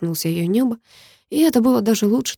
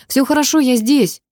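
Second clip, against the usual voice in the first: higher, louder call that all is well; shouted reassurance; 6 semitones higher, 3 dB louder than usual. Acted. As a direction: shout to reassure her from the water. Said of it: "крикнул я". (громкий ободряющий крик)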